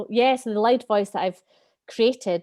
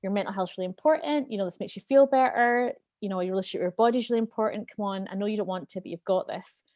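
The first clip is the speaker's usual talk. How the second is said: calm adult self; faster than usual. Retold or imitated. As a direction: talk a tired child round kindly. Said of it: "adult Lou's like".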